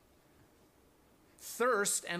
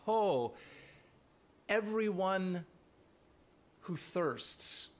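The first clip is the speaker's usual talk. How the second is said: a guttural call of "Ho", then easing; impassioned cry; 3 semitones higher, much slower than usual. Shown as a demonstration. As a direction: cry out "Ho" like God calling. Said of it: "impassioned cry of God".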